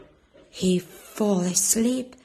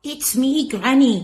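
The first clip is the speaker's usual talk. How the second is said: higher mock girl voice; wolf faking girl; 4 semitones higher, 6 dB louder than usual. Wolf pretending to be the granddaughter. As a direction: pretend to be the child.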